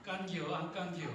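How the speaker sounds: short Chungcheong dialect question. Shown as a demonstration. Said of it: "충청도 사투리로 뭐라고 하시는지". (충청도 사투리로)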